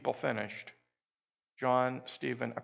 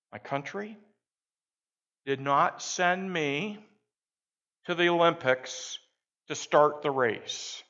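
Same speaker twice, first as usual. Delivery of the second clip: a hint of a Tanzanian accent. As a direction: speak it as a Tanzanian runner, proud and firm. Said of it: "in a heavy African Tanzanian accent".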